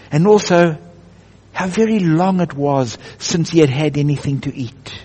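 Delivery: unhurried storybook narration; a touch of drama in the storytelling. A narrator's reading. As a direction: read it like a bedtime story to children. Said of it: "in my best storytelling voice".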